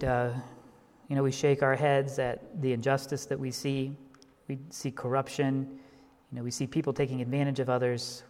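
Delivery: a pastor praying for the congregation; closing prayer. Real, not acted.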